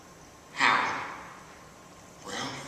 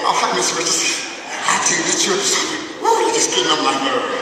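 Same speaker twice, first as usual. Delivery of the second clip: lightly voiced, sugary teacher greeting; sweet-talking teacher; 4 semitones higher, 6 dB louder, faster than usual. Teacher greeting the visitor, lightly voiced fake sweetness. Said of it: "Then when I walk in".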